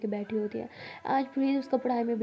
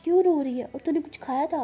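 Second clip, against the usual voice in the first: fussing elder sister; 5 semitones higher, 6 dB louder than usual. Acted. Elder sister soothing crying girl.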